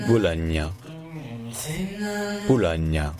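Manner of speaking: Bologna as "bu-LA-nya", stress on LA; Bologna, darker first vowel, open stressed a; Emilian pronunciation. Shown as a demonstration. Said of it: "en émilien, c'est plutôt".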